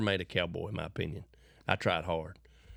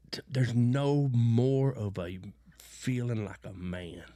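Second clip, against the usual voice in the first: hushed; 3 semitones higher, slower than usual. Real, not acted.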